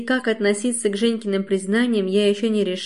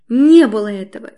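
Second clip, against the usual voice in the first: loud denial; 10 dB louder than usual. A narrator's reading. Outraged mother denies accusation.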